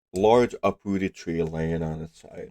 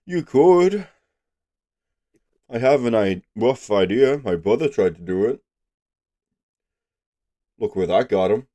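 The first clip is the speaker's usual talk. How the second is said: gruff hermit voice; 3 semitones higher, 4 dB louder than usual. Acted. GM voices the tree dweller.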